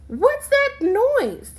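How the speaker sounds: high, slow scared question; frightened. Acted. Child woken at night by a noise, frightened and high. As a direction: ask it startled in the dark.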